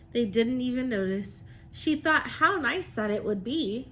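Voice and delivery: lively, sing-song storybook reading; reading to children. Acted. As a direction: read it like a rhyming picture book to the class. Teacher reads picture book aloud.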